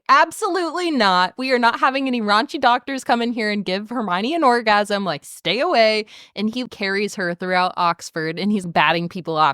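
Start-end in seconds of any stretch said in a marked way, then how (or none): 0.1-6.0 high, emphatic mock outrage; mock indignant refusal. Draco refusing a doctor for Hermione, mock indignant refusal. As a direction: refuse hotly, pitched up and playful.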